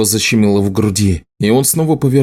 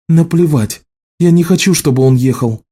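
angry; 7 semitones higher than usual. A narrator's reading. Ссора супругов.

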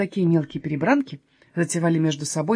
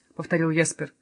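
ordinary delivery

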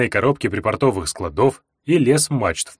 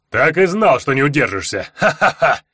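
barbarian; 2 semitones higher than usual. Acted. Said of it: "гогочущий голос варвара".

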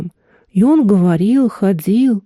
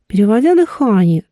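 ordinary delivery, nothing marked

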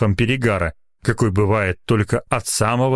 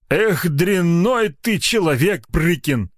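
reasonable reproach; 8 semitones higher, slower than usual. A narrator's reading. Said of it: "резонно заметил".

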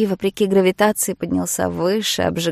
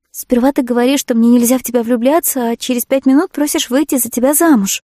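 louder and higher, words tumbling out; blurted out; 5 semitones higher, 7 dB louder than usual. A narrator's reading. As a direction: blurt it out in a rush of feeling. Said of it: "выпалила я". (выпалила, громче и выше)

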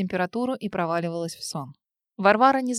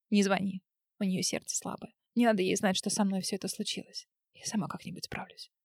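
softer and softer until barely whispered; weak, fading voice; 7 dB quieter than usual. A narrator's reading. To her friend Sveta, fading to a weak whisper. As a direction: trail off into a whisper. Weeping woman begs friend not call.

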